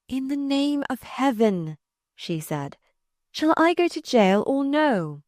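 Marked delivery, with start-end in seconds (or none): 0.1-1.8 pleading woman. A narrator's reading. Catherine asks the man about jail, pleading and high. 3.3-5.2 high-pitched woman's demand; pleading woman. A narrator's reading. Catherine asks if she goes to jail, urgent and high.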